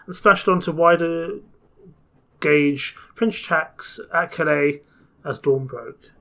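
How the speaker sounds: lively storybook reading, rising and falling; narrating an adventure story; story narration. A narrator's reading. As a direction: read the tale aloud as Passepartout. Reads the game's story aloud.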